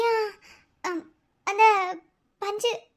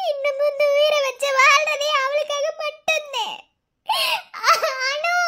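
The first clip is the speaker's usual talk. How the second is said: sobbing; 2 semitones higher than usual. Acted. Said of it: "அழாதீங்கம்மா".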